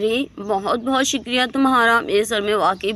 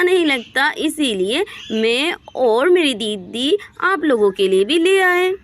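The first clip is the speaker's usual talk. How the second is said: higher, chirpy, eager to please; Reena's cheerful voice; 4 semitones higher than usual. Acted. Reena cheerfully brings the neighbours sherbet, higher voice. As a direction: bubbly offer of sherbet.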